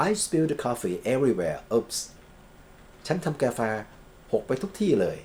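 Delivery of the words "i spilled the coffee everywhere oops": slow example sentence ending in a light oops; slow model reading. Shown as a demonstration. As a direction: read it slowly for students. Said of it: "teacher reads example with interjection". (อ่านช้าๆ ลงท้ายด้วย oops เบาๆ)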